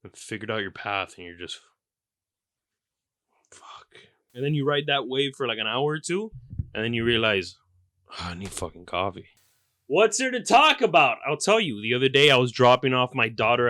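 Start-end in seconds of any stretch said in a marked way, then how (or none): 3.5-3.9 breathy whispered "fuck" of defeat; whispered curse. Acted. 8.1-9.3 low, droning self-voice; mock weary realization.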